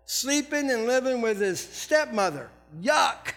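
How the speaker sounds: mock church admiring. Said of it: "the church there are going".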